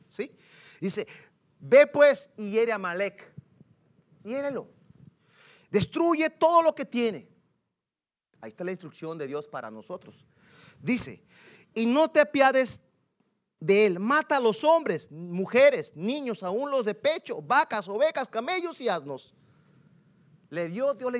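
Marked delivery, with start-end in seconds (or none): 1.6-7.3 slow, emphatic divine command; declaimed scripture. Acted. Preacher voicing God's order against Amalek, declaiming. 11.7-19.3 slow, measured list of commands; declaimed scripture. Acted. Preacher reading God's order to spare nothing, declaiming.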